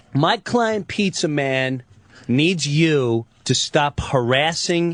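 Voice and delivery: slow, halting mock lawyer read; a light send-up of the bad letter; bumbling lawyer. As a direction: drag it out like a clueless lawyer. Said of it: "it's basically like".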